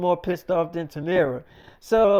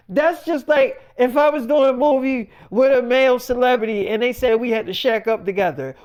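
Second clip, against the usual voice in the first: imitating an angry partner, pitched up; retold indignant rant; 4 semitones higher, 3 dB louder than usual. Partner challenging David over the movie request, indignant. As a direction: argue it hotly in a higher voice.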